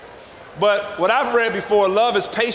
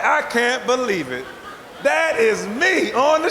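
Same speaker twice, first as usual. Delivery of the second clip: excited disbelief; 2 semitones higher, slower than usual. Retold or imitated. Retells seeing his face on freezer.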